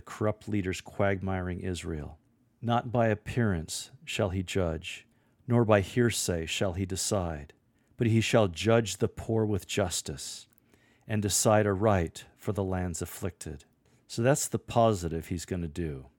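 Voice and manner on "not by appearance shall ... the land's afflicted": bold and serious, a little louder; bold, strong, serious. Shown as a demonstration. Lector to congregation, bold and serious proclamation. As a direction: read it with strong conviction. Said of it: "your delivery should be bold, strong, more serious".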